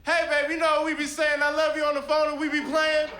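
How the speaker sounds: high, pleading voice to the bride; wedding crasher pleading. Acted. Ex pleading with the bride at the altar, high and begging. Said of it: "acted wedding objection speech".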